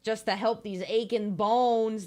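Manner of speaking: put-on lightly done Irish accent for the skeleton; bad Irish-ish accent. Voicing Skelly in a half-hearted Irish accent. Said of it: "That's probably a terrible accent".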